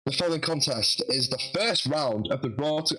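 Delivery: lightly hamming up a ring announcer's call. Retold or imitated. Announcer opens the tournament match, lightly imitated announcer voice.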